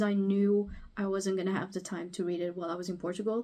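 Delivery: ordinary delivery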